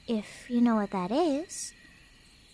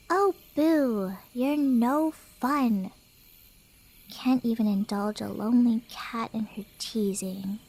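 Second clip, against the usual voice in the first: pouting; 3 semitones lower than usual. Acted. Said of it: "I'm not pouting".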